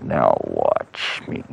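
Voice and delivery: low, slow threat; deep, slow swordsman's warning; menacing giant. Acted. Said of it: "he pulls out his sword and he said".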